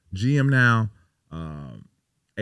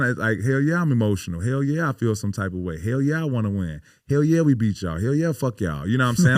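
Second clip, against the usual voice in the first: building, louder hype; fired up; 4 semitones higher, 4 dB louder than usual. Real, not acted. Player tells host why the game was personal, fired up. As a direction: pump it up line by line. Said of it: "building emotional declaration".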